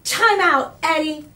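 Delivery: firm teacher command; stern teacher. A narrator's reading. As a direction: send the boy to time out. Teacher scolding Eddie.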